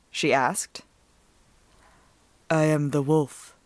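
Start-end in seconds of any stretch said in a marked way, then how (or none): 2.5-3.5 a lightly voiced low wolf; growling wolf. A narrator's reading. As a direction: speak as a wolf from the bushes. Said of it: "said the growls".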